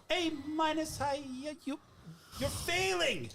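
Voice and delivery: lightly voiced strict Asian dad; a hint of a scolding Asian father. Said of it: "the Asian dad bit".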